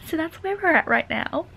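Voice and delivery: usual speaking voice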